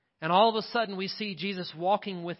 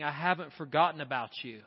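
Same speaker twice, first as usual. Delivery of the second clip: a lightly voiced Jesus, tender then swelling; preacher voicing Jesus promising never to leave; 4 dB louder than usual. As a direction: speak as Jesus to a hurting listener, building. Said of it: "He's calling your name, saying".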